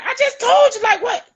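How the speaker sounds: exasperated mother, half laughing. Retold or imitated. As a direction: reenact losing patience with a laugh. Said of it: "And I'd be like".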